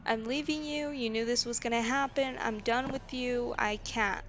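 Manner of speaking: put-on leaving the boyfriend, firm and fed up; retold firm demand. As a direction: reenact telling him she is leaving. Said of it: "I'm like".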